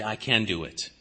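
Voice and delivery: low, hushed self-talk; a self-righteous man softly reassuring himself; quiet self-assurance. Acted. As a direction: mutter it to yourself, sure of it. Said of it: "And they say".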